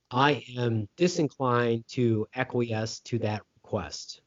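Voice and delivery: slow, measured formal refusal; lightly stately pirate captain; Captain Barbossa. Retold or imitated. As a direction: draw out the grand words deliberately. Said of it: "I was just quoting Captain Barbossa".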